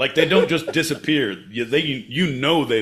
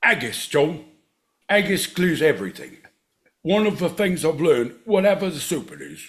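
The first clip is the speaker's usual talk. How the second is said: put-on Scottish accent; 3 semitones higher than usual. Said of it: "Scottish, my boy Pete?".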